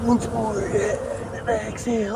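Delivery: breathy strained calm; strained meditation voice. Acted. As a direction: try to stay calm while stung. Meditation under bee attack.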